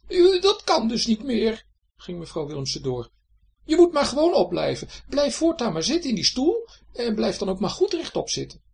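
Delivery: high, loud scolding wife; bossy wife. A narrator's reading. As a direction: lay down the law to him. Wife scolding husband about snoring. (hoge, luide bazige echtgenote)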